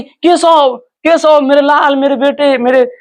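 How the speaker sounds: put-on mother shouting for her missing baby; calling out for son. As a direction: call out desperately for the lost child. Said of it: "अब चिल्लाने लगी".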